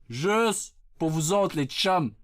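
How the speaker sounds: drawn-out, deliberate promise; slow emphasis. Acted. Streamer to his chums, slow deliberate emphasis. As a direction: stretch out the first word.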